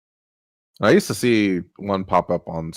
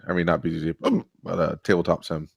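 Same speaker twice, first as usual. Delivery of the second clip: talking through hiccups; words broken by hiccups; 3 semitones lower, 4 dB quieter than usual. Real, not acted. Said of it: "I got the hiccups now".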